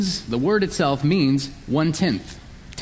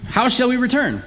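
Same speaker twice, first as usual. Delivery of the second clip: scornful question; 8 semitones higher than usual. Retold or imitated. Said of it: "scornful and sarcastic".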